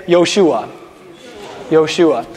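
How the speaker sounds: "Yoshua" contracted to three syllables; fast Hebrew form. Shown as a demonstration. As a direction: say "Yoshua" as the short form of Yehoshua. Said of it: "if you wanna say it fast in Hebrew".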